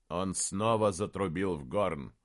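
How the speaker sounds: ordinary delivery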